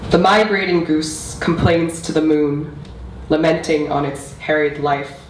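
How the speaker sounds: measured recital with deliberate pauses between phrases; spoken-word poem, evenly paced and solemnly delivered; poetry reading. Acted. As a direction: read it as a poem, line by line, letting each image land. Reads own poem aloud.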